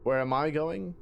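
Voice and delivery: put-on a hushed, secretive British accent. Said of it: "kinda like a British accent".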